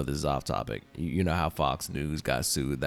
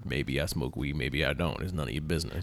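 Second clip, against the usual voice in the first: evasive, a bit softer; defensive; 4 dB quieter than usual. Real, not acted. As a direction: brush the question off. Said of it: "You sound kinda defensive".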